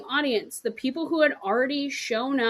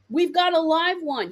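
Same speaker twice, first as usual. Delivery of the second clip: more excited; 6 semitones higher, 5 dB louder than usual. Retold or imitated. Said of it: "And you're excited".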